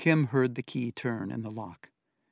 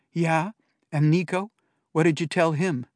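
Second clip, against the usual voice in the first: challenging; 5 semitones higher, 6 dB louder than usual. A narrator's reading. Sister challenging brother angrily.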